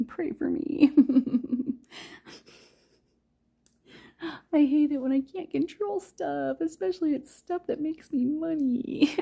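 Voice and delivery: high, loud laugh through frustration; exasperated laughing. Real, not acted. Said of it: "it's driving me up the wall".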